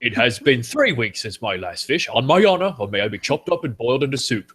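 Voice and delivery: put-on shark character voice; shark impression. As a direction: imitate a movie shark solemnly taking a pledge. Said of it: "I really like the meeting the sharks".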